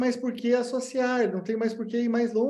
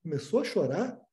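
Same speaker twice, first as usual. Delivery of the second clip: pointed echo question; 3 semitones lower, 3 dB quieter than usual. Shown as a demonstration. Analyst echoing the patient, pointed questioning tone. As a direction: echo it back with a questioning rise. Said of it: "você fala".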